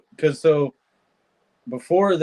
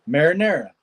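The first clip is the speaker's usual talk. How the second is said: Southern accent; 2 semitones higher than usual. Shown as a demonstration. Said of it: "What's that in Southern words?".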